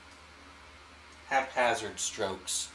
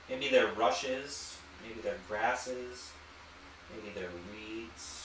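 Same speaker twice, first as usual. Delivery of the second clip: slow musing; much slower than usual. Real, not acted. Painter inviting viewers to imagine, slow and dreamy. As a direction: let each guess drift off slowly.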